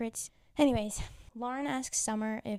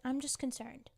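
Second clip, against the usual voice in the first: whispered; 3 semitones higher, 5 dB quieter than usual. Retold or imitated. Austin's quoted reply, whispered.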